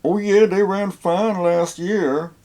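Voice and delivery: mock the seller's casual promise; imitating the seller. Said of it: "the guy said".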